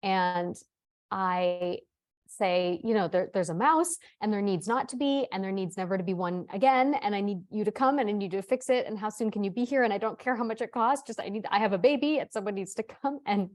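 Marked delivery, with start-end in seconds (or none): 3.1-13.2 pleading, run-on demands, mildly frantic; retold panic. Mother begging an exterminator to come, mildly panicked. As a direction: pile up the demands in mock panic. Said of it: "I'm really in panic".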